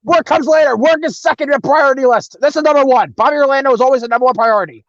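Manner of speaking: high, loud hammed-up order; mock boss pep talk. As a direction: preach it like a self-important boss. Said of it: "I was like".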